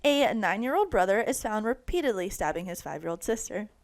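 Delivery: serious TV news read; news anchor voice. Acted. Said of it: "Let me put on my best news anchor voice".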